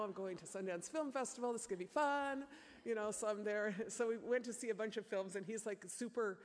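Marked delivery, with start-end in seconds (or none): 0.0-2.4 high, bright-eyed mock thrill; gushing excitement. Mom telling the crowd about her trip, mock-excited. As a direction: play up how thrilled you were to go.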